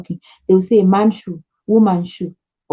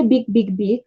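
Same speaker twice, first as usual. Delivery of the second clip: repeated quote. Retold or imitated. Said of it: "When they say".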